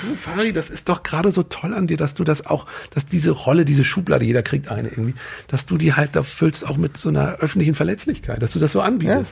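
quoting Rocco. Retold or imitated. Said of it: "Rocco Schamoni neulich zu mir gesagt".

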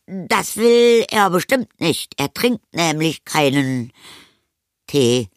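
put-on high, slow, stretched boy's refusal; flustered boy. A narrator's reading. Anton refuses tea for vampire, flustered. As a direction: draw it out high, choosing words carefully.

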